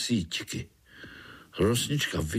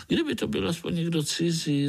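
lamenting; 6 semitones higher, faster than usual. A narrator's reading. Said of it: "zalkala Rosnička".

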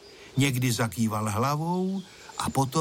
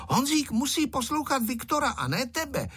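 put-on high, firm scolding girl's voice; stern voice; 13 semitones higher than usual. A narrator's reading. Little girl Tereska sternly telling Ferda off. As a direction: put the boy in his place sharply. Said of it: "řekla přísným hlasem Tereska".

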